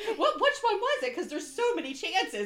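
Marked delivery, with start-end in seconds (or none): 0.1-1.1 laughing. Real, not acted. Laughing high question.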